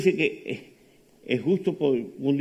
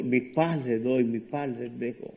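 solemn quote; 5 dB quieter, slower than usual. Acted. Quoting Jesus in sermon.

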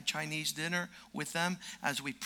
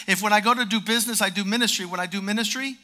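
preaching crescendo; 2 semitones higher, 6 dB louder, faster than usual. Acted. Preaching climax on ministry.

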